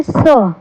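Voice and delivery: "स" as an s sound with short vowel; letter sound demo. Shown as a demonstration. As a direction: sound out "स" for learners. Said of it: "S की sound होती है".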